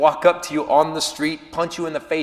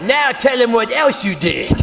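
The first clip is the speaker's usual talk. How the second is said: put-on nagging girlfriend; 3 semitones higher than usual. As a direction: egg him on like a teasing girlfriend. Girlfriend prompting again.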